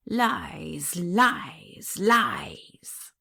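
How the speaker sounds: lightly voiced hoarse whisper of lies; hoarse goblin voice. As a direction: hiss it like a hidden goblin. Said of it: "a hoarse, indistinct voice".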